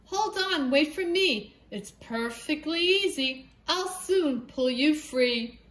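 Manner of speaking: high eager cat voice; a helpful cat calling out. Acted. Cat calling to the stuck hen, high and eager.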